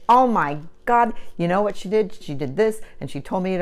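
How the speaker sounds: mock gossip to a friend; gossipy venting. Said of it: "you're gonna say".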